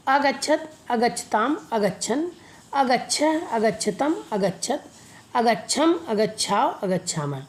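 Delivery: list-like chant from "अगच्छत", each form lifted at its end; pronunciation drill. Shown as a demonstration. Teacher has students repeat past-tense "अगच्छत" forms, pronunciation drill. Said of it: "एक बार फिर उच्चारण करिए".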